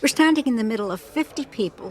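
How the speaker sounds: high, loud and upset; agitated. Real, not acted. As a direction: blurt it out, rattled. Upset daughter confirms to friend.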